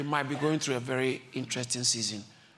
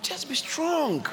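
slow emphasis; 10 semitones higher, much slower than usual. Real, not acted. Emphatic exhortation.

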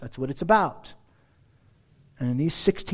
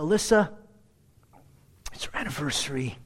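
deep Hispanic voice; faster than usual. Pretend. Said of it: "with, like, this deep Hispanic voice".

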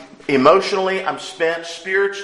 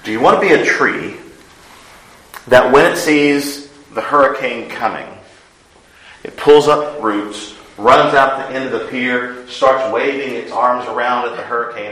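louder, fast, acting out a tree charging the storm; animated loud build; 6 dB louder than usual. Preacher to congregation, mocking the tree that fights the hurricane, loud and animated. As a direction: paint the frantic tree with a big, pushing voice.

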